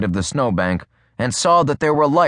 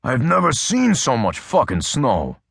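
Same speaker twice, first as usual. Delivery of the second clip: declaring Adams; 3 semitones higher than usual. A narrator's reading.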